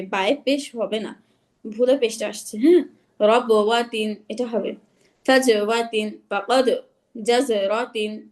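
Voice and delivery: deliberate, slow recitation of examples. Shown as a demonstration. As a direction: read each word out slowly for the class. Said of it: "আমি একটু ই দিয়ে বুঝাই". (ধীরে ধীরে শব্দ পড়া)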